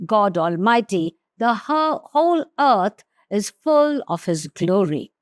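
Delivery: steady, solemn Bible reading; scripture reading. Acted. Preacher reads Isaiah to his congregation, solemn reading. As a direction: read the passage aloud with gravity.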